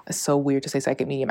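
quick unvoiced whisper aside. Real, not acted. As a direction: whisper it under your breath.

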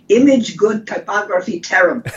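imitating a teacher's thick Polish accent, lightly; a Polish teacher's blunt verdict in his accent; mild Polish accent impression. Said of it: "who had a very thick Po-, uh, Polish ac-, ac-, accent".

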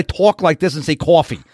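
mock New York "tawk" and "cawfee"; lightly exaggerated New York City accent; Bronx accent. Shown as a demonstration. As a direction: put on a Bronx accent to show it off. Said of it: "That's the Bronx".

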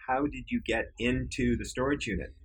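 disbelieving, lightly exasperated ask; frustrated question. Retold or imitated. Boss asking his intern how he got in, mildly frustrated. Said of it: "Now I'm really frustrated".

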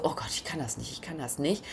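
low, quiet mock despair; a hint of the old fear, murmured; retold panic. Remembering her panic on the quad, low and quietly anxious.

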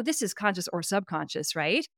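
normal talking voice

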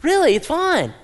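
high, loud, over-insistent mock reassurance; hammed-up cheery denial. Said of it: "living in denial".

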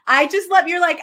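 high, loud burst of delight; excited gushing. Real, not acted. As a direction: gush with real admiration. Host gushing about guest's audacity.

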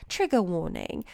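trigger warning in a put-on British accent. Shown as a demonstration. Host demonstrating a trigger warning, British accent. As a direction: say it with British dropped R's. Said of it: "do it in my British accent".

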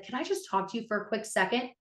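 quick, casual retold aside; nonchalant. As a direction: toss it off lightly, a bit fast. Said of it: "so nonchalant".

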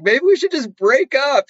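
high-pitched imitation of a tearful plea; imitated upset, high and plaintive; mock tearful. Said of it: "in tears. She's like".

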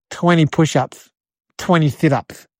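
low, slow command; tough boss chicken. Acted. Big Joe sentences the boy to exercise, tough boss. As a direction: hand down the punishment low and deliberate.

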